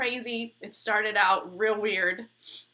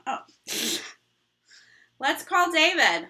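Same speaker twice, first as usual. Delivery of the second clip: ordinary talk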